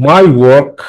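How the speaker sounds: "work" given the weight after "my"; teacher showing "work" as the stressed word. Shown as a demonstration. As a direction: lean on "work". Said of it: "ওয়ার্কটা হচ্ছে stress syllable".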